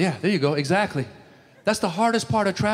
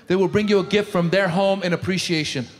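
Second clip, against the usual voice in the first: ordinary talk, nothing marked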